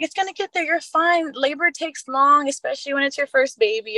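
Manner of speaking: a hint of a calm midwife calming a first-time mother; midwife reassuring. Midwife reassuring her in labor.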